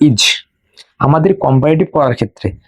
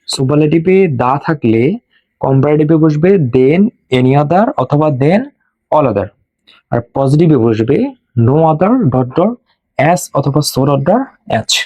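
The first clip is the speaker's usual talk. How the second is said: slow, measured rule recitation; memorisation drill; slower than usual. Shown as a demonstration. Teacher has students memorise the superlative rule along with them, slow recitation. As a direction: recite it slowly for learners to repeat along. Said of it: "আমার সঙ্গে সঙ্গে মুখস্থ করো".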